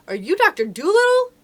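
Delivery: high, loud, rising shout; shouted question. A narrator's reading. Boy asking the man's name in the rain, shouting. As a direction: shout it out, pitch climbing to the end. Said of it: "I shouted as we sped up".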